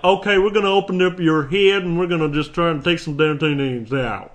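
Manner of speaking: put-on Southern accent, loud and casual; Southern surgeon. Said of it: "If a guy went like".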